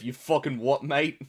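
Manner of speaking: British street-talk caricature; mock British accent. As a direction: put on a British "mate" accent. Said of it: "British guys in movies, in real life".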